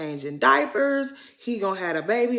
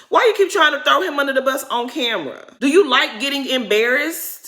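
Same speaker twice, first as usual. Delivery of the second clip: louder, higher scolding at the screen; heated scolding of Robin; exasperated rant; 4 semitones higher, 5 dB louder than usual. Real, not acted. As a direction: tell her off like a fed-up friend.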